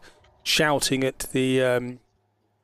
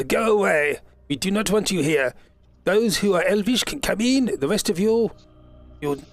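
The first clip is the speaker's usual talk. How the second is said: guards shouting back; 4 semitones higher than usual. Acted. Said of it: "you hear it shouted back".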